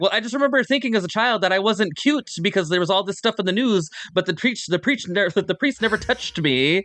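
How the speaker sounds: high, lilting Irish woman; Irish accent. Retold or imitated. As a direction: quote her in an Irish lilt. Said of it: "I always speak in her voice".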